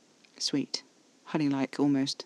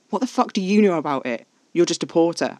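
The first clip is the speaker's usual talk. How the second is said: raised, louder, scornful outburst; angry hiss; 3 semitones higher, 4 dB louder than usual. A narrator's reading. Panicking Alfie dismissing Caspar's reassurance, angry and scornful. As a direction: lash out with pitch and volume up. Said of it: "I hissed".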